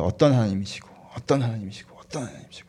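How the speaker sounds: musing repetition fading to a whisper; murmured meditation. Shown as a demonstration. Preacher modelling meditation on God's word, murmured and fading away. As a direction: let each repeat sink into a hushed murmur. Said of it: "말씀을 묵상하는 거예요".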